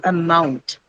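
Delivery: "amount" said slowly, weight on the MOUNT part; "amount" with a light first schwa and a long, stressed "mount"; stress on second syllable. Shown as a demonstration. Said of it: "Stress is on the second syllable".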